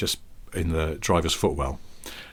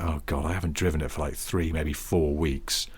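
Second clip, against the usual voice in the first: weary; 4 semitones lower, 5 dB quieter than usual. Retold or imitated. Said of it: "I had this sense of weary inevitability".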